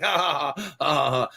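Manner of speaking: imitating a delighted laugh; mock happy laugh. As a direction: play-act laughing along happily. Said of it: "'cause he's like".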